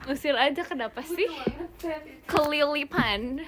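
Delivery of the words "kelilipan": "Kelilipan" stretched out slowly, rising at the end; slow, drawn-out "Kelilipan"; pronunciation demo. Shown as a demonstration. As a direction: read out "Kelilipan" slowly and deliberately. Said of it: "Bacanya kelilipan".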